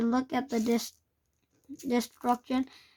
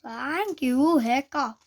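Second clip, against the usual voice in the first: heavy sarcasm; 3 dB louder, slower than usual. Acted. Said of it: "with a heavy sarcasm".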